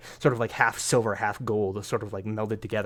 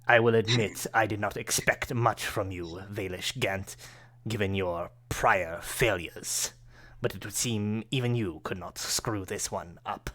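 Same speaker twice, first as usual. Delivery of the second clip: cold villain. Acted. Villain Akar Kessel belittles his servant, lightly voiced scorn.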